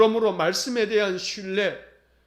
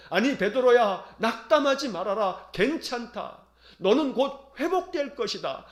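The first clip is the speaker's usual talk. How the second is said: gently reassuring, a touch of tenderness; warm reassurance. Retold or imitated. Jesus comforting Peter after his denial, gently reassuring. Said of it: "따뜻한 시선으로, 위로의 시선으로".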